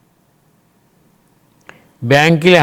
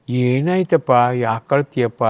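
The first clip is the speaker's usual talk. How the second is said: gentle concern; 3 semitones lower, 3 dB quieter than usual. Acted. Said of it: "ಭಗವಂತ ಹೇಳ್ತಾನೆ".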